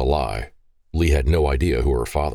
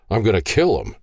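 through gritted teeth; 5 semitones higher than usual. Acted. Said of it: "he said between gritted teeth".

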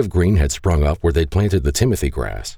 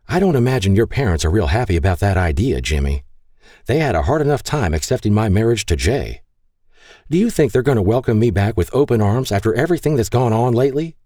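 demanding; 5 semitones higher than usual. Acted. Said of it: "Maggie demanded".

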